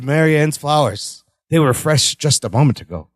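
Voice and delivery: low, solemn imitation; very serious. Retelling the cursed man showing wilted flowers, very serious. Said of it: "he has a very serious look".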